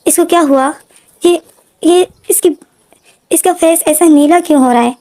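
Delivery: high, panicked questions; frantic disbelief at the blue baby; shocked. A narrator's reading. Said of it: "इतनी shock में हो गया था".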